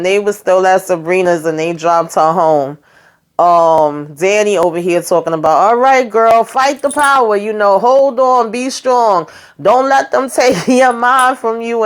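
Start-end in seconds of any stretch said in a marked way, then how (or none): 5.7-11.8 high, hammed-up cheerleader voice; mock pep talk. Danny cheering Sabrina on as she leaves, hammed-up.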